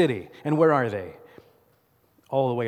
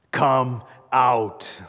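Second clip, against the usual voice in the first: loud call; 4 dB louder than usual. Retold or imitated. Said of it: "Jesus shouts".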